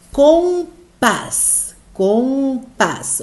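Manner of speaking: compás as a drawn-out "com", then a separate "pás"; split into syllables. Shown as a demonstration. Teacher showing the strong syllable, compás syllable by syllable. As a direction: break compás in two, slowly and deliberately. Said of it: "O pás é a sílaba forte".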